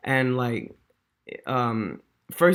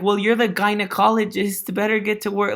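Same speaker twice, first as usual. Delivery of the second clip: higher and louder, half laughing through the quote; amused quote reading; 6 semitones higher, 5 dB louder, faster than usual. Retold or imitated. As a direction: read the joke as if you can't believe it. Reading a crude email quote aloud.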